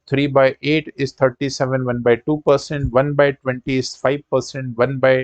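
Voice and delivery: reciting a memorised fraction table to students; list-like drill, one pair after another; quick-fire recitation. Shown as a demonstration. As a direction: rattle through the table in a steady run. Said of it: "बहुत जल्दी से आपके सामने सुना दी".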